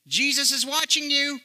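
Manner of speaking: booming voice. Retold or imitated. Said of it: "the voice just booms out loud".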